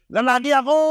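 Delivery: put-on high, loud child shout; proud boy yelling back; child's shout. Seven-year-old son shouting his answer, high and loud.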